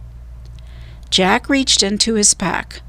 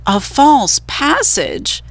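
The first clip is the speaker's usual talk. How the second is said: panting question; 6 semitones higher, slower than usual. A narrator's reading.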